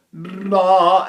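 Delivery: a big, loud, booming nah; huge dramatic voice. Shown as a demonstration. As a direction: boom it out like a huge voice. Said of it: "sounds like a huge voice".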